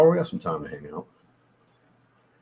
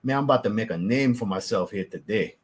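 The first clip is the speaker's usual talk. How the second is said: authentic Cajun accent. Shown as a demonstration. Showing viewers the real way to say it, Cajun accent. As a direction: flatter South Louisiana Cajun accent. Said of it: "that's the authentic side of it".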